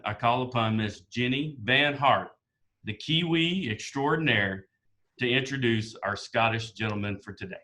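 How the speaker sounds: lightly put-on Southern US accent; a touch of courtly Southern accent. Host calls upon the Kiwi introducer, mock Southern accent. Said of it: "in my best Southern accent".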